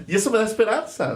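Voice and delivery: said through real laughter, fast; laughing. Real, not acted. Laughing as he says the doubts give him hope. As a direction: still laughing as the words come out quickly. Laughs while speaking, after joke.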